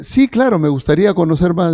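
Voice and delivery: high, bright-eyed "sí, claro"; eager yes. Acted. An interested neighbour accepts Bible study, eager and high. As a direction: jump at the offer gladly.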